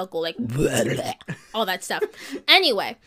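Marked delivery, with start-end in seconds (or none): 0.4-1.5 a low demonic growl, half laughing; mock demon growl; deep demon growl. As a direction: growl it deep like a possessed kid. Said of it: "Go really deep down".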